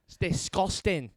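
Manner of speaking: high, drawn-out Scottish disgust; Scottish accent. Shown as a demonstration. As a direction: draw it out in mock Scottish. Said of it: "learning how to do a Scottish accent".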